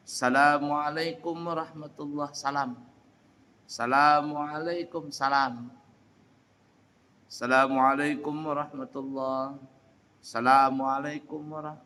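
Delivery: "Assalamualaikum" said without the as-, like "salamualaikum"; wrong salam. Shown as a demonstration. Teacher showing the wrong greeting without alif lam. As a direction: drop the al- and say "salamualaikum". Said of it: "ini salah ini".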